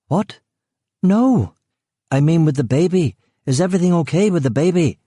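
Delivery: high, fast, frightened voice; terrified woman. A narrator's reading. Pregnant woman terrified by the gunman, panicked high voice. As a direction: blurt it out in panic.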